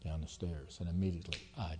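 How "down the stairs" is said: mild retold alarm. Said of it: "Somebody ran to me and said".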